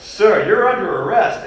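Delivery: high, loud, slow official call. Retold or imitated. Metro officer calls after the man with the apple, loud and slow. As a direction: bark the arrest across the platform.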